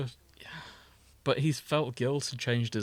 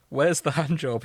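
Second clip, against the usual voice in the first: crisp Edwin voice; 3 semitones higher, 3 dB louder than usual. Acted. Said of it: "Edwin's crisp voice in his mind".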